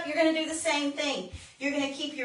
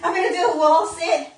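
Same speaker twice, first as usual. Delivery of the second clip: laughing through the words; 3 semitones higher, 4 dB louder than usual. Real, not acted. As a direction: say it while still laughing. Laughs at being out of breath.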